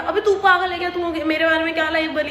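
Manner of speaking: mock angry retort. Telling off the accusing friend, heated mock retort. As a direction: snap back as if insulted. Retold heated argument at party.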